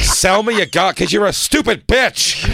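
put-on old lady barking. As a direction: bark at her sister. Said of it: "they would just bark".

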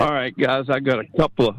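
lightly imitating a fellow tipster; a hint of a sports picker's patter; X-Man voice. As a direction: attempt a tipster's measured voice. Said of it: "try to get my X-Man voice".

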